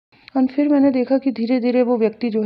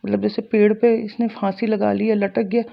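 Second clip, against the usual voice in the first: ordinary talk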